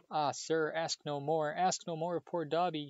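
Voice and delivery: high, faltering elf plea; stammering. A narrator's reading. Frightened elf begs Harry, stammering. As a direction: beg him to stop, tripping over words. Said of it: "stammered the elf".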